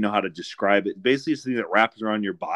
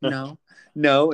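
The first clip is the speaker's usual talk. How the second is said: put-on toddler saying no; 5 semitones higher, 5 dB louder than usual. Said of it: "He's like".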